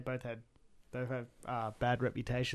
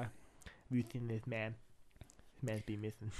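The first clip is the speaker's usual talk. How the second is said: Ice-T voice; 2 semitones lower, 7 dB quieter than usual. Pretend. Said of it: "I just go straight into Ice-T".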